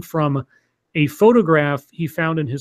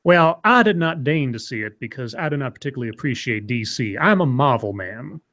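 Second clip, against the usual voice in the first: put-on southern lawyer accent. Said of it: "my southern lawyer accent?".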